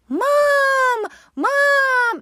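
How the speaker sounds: high, loud imitation of a toddler calling for his mother; imitating a two-year-old crying out for his mom from the tunnel; toddler screaming. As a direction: wail it like a two-year-old left behind. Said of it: "my two-year-old child screaming".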